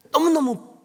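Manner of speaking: 너무너무 cried out high and loud; 너무너무 stressed. Real, not acted. Preacher stressing Mary's anger, 너무너무 high and loud. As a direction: throw 너무너무 up high and hard. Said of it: "분노한 거예요".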